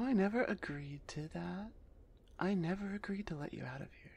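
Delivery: lightly voiced minotaur executioner, often half-whispered, wary then bargaining; a minotaur jailer sizing up a prisoner who offers a magic map, hushed; minotaur barbarian. Minotaur executioner bargaining with the condemned assassin, lightly voiced and half-whispered.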